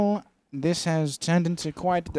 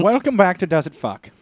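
game show host; 3 semitones higher, 4 dB louder than usual. Pretend. Opening a mock game show.

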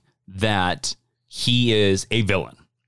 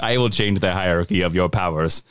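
Black Adam; 7 semitones lower than usual. Retold or imitated. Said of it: "an absolutely ancient old man being like".

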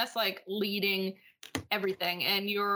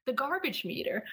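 General American "garbage meter", Rs fully sounded; accent dropped, General American; 3 semitones higher than usual. Shown as a demonstration. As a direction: neutral American accent, carefully rhotic. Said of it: "when I say it not in my accent".

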